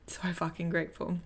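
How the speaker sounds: a soft, breathless whisper of thanks; whispered gratitude. Real, not acted. Whispering to viewers how grateful she feels. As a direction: whisper it like a secret you can barely hold. Overwhelmed gratitude after morning bliss.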